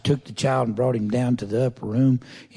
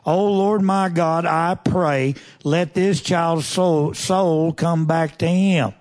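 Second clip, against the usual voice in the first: fervent prayer; 3 semitones higher, slower than usual. Acted. Elijah crying out to God over the dead boy, slow and pleading. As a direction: draw out the plea for the child's soul.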